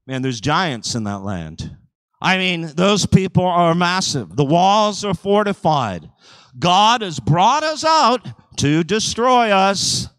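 the doubting spies, rising in alarm; fearful Israelites voiced.

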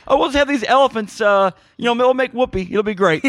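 high, loud, flustered mock voice of the writers; mocking clueless writers. Podcaster mocks the writers of the movie's ending, high and loud. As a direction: ham it up as panicking screenwriters.

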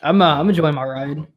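slightly slurred. Real, not acted. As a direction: let the words blur a little. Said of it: "You slurred there a bit".

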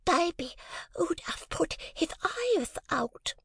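high, slow, breathless whisper; a timid child whispering her excuse; whispered little girl. A narrator's reading. Jane whispering to her mother, high and timid. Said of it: "lisped the little girl".

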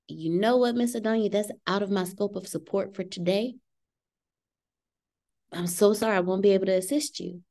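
gentle, apologetic customer-service voice; polite apology. Shown as a demonstration. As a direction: let her down kindly.

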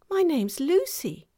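put-on a young girl telling her name; girl's voice. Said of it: "she said".

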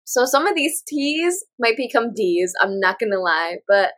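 sick, stuffy voice; talking through a cold; flu. Real, not acted. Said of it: "I'm sick".

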